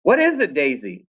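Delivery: high worried call; mother yelling. Acted. Mama calling to Daisy, a high anxious yell. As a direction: shout up the hill. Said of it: "she yelled".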